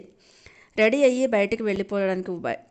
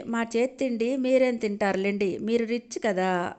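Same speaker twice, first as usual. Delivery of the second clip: stretched-out, higher mocking tease; drawling sarcasm; 4 semitones higher than usual. Aunt mocking rich Neeraja, drawling. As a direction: drag the words out to mock her. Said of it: "అని సాగదీసింది వాసంతి".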